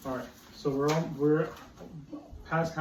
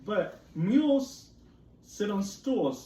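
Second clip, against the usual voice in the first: MULES higher and louder, slow; emphatic cat line; 5 semitones higher, 4 dB louder, slower than usual. Acted. Teacher rereading cat's rhyme, MULES lifted. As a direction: hit MULES up high. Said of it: "said the cat".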